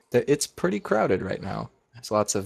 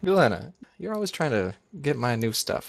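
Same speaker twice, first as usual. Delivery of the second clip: higher, playful scolding; lightly pitched-up character voice; lightly voiced Ruby; 5 semitones higher than usual. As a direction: chide a friend, voice lifted. GM voices Ruby greeting Galena.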